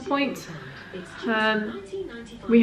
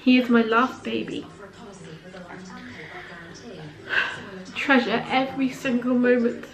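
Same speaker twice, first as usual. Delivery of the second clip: choked up, voice wavering with tears; fighting back sudden happy tears; real tears, breaking off between words; emotional, tearful; 2 semitones higher, 5 dB quieter than usual. Real, not acted. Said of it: "a little bit emotional".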